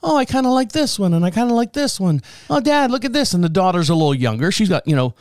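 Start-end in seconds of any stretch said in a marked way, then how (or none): 0.0-3.3 high-pitched eager kid imitation; lightly mimicked daughter, pitched up; young daughter. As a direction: imitate a little girl showing Dad her finds. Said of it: "the daughter's walking around and she's like".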